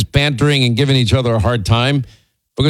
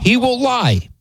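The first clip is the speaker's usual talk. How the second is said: he will lie, pitched way up; teasing accusation; 11 semitones higher, slower than usual. Real, not acted. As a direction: land the accusation high and playful. Accusing James of lying.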